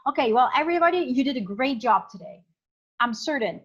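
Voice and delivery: sure-footed praise to the class; certain. Shown as a demonstration. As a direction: praise them like you're sure of it. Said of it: "If I, for example, believe in something and I'm certain".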